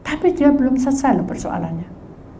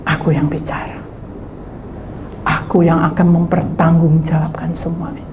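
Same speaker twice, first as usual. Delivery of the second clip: hushed divine promise; 9 semitones lower, 5 dB quieter than usual. Acted. Preacher voicing God's promise to believers, hushed. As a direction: speak as God, quietly assuring. God's word voiced low.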